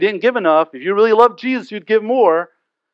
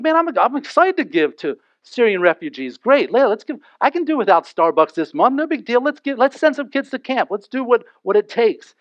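cheerful giver; 5 semitones higher than usual. Retold or imitated. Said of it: "You're like".

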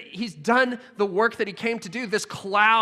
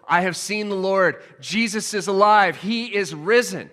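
joyful proclamation; 5 dB louder than usual. Acted. Mary proclaiming to the world.

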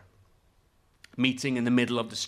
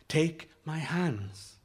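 calm firm; much slower than usual. Acted. Girl calm, insistent.

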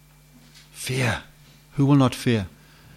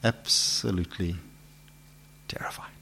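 terrified; 5 semitones lower, 11 dB quieter than usual. Acted. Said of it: "how is Israel feeling".

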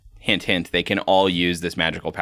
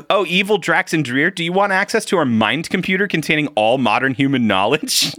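high, theatrical mock-evil voice; hammed-up sinister offer; mock villain offer; 6 semitones higher than usual.

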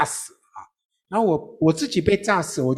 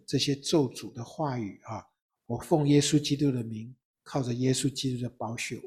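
softer, measured prayer of blessing; 4 dB quieter than usual. Retold or imitated. Father blessing his daughter in Jesus' name, soft and earnest.

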